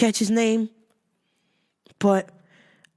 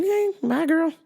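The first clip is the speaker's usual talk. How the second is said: sassy bye; 10 semitones higher than usual. Retold or imitated. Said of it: "I'm like".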